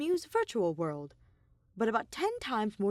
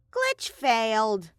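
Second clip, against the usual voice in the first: mock sad; 3 semitones higher, 7 dB louder, much slower than usual. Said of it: "Monokuma announced sadly".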